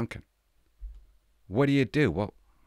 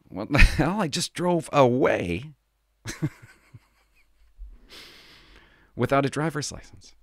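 laughing disbelief; 5 semitones higher than usual. Retold or imitated.

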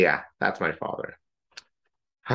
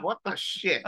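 outraged; 9 semitones higher, slower than usual. Retold or imitated. Retold outraged reaction.

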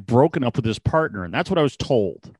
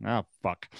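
deflated; 4 semitones lower, 8 dB quieter than usual. Retold or imitated. Retold letdown at bear rejection.

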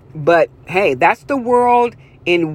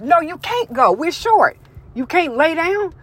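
higher-pitched mock refusal; lightly voiced old-school boss; 7 semitones higher than usual. Old-school boss to sick worker, mock refusal. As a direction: imitate a boss turning someone down, pitched up.

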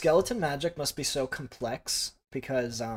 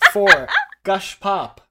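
laughing; 6 dB louder, slower than usual. Real, not acted. Laughing while reading names.

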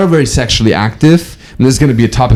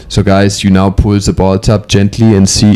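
put-on German accent; 4 semitones lower than usual. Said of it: "Talking in a German accent".

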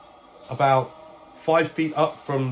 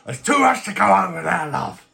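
raised, put-on character voice; resigned in-character reply; weary captive; 6 semitones higher, 5 dB louder than usual. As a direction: brush off the question fondly. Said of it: "And I'm like".

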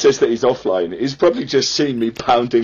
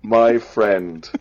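word by word with long gaps; halting, as if typing each word while speaking; slow dictation; 6 dB louder, much slower than usual. Real, not acted. Typing a message to a stranger, slow dictation.

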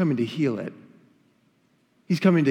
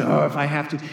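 begrudging; 4 semitones lower, faster than usual. Retold or imitated. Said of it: "not need to as in".

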